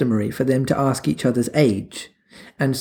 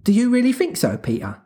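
Wendy's voice; 9 semitones higher than usual. A narrator's reading.

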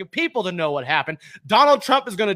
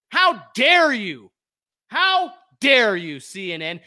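slow, heavy how dare you; indignant at CNN; slow outrage; much slower than usual. Real, not acted. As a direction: drag it out in disgust.

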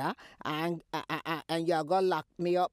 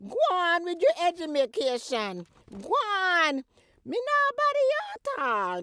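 high, loud shooing away; angry dismissal; 10 semitones higher, 6 dB louder than usual. Acted. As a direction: wave her off with a raised voice. Mother dismissing daughter angrily.

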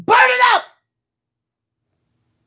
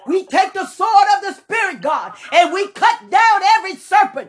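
preaching at full force; 3 semitones higher than usual. Real, not acted. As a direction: cry it out over the congregation. Fervent spoken prayer.

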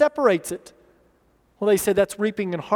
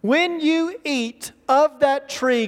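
slow, higher-pitched solemn warning on "When you eat of that tree"; emphatic warning; 4 semitones higher, slower than usual. Retold or imitated. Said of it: "it's an emphatic death".

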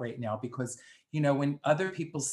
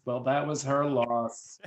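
smug shrug. Retold or imitated. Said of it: "and thinks".

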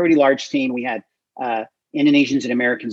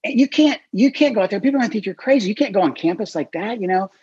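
1 friend warning; 7 semitones higher, faster than usual. Retold or imitated. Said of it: "my friend Joe's like".

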